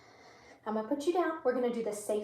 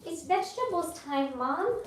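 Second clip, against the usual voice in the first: slightly higher, lightly voiced pet talk; 4 semitones higher, 4 dB quieter than usual. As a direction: speak up for the pet, a bit higher. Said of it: "I know, you say".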